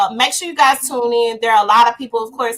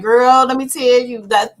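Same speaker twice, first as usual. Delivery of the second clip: sassy girlfriend talk, lightly put on; 3 dB louder than usual. Shown as a demonstration. Showing how she talks with friends, girlfriend tone. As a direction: slip into your girlfriend tone. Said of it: "my girlfriend tone on".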